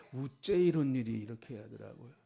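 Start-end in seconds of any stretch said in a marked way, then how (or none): 0.1-1.1 Gyeongsang accent, punched louder at the start; Gyeongsang dialect. Shown as a demonstration. Preacher amusing the congregation with a lament in Gyeongsang dialect. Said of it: "경상도 사투리는".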